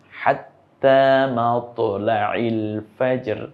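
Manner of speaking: slow measured recitation of হাত্তা মাতলাইল ফাজর; slow Quran recitation. Acted. Teacher reciting a verse of Surah Qadr slowly. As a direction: chant it slowly like tilawat.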